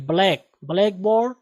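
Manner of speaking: ब्लैक, ब्लैकबोर्ड with a tight bl cluster, no extra vowel; ब्लैकबोर्ड in the teacher's correct form; correct pronunciation. Shown as a demonstration. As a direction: model ब्लैकबोर्ड by first saying ब्लैक alone. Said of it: "ब्लैकबोर्ड नहीं".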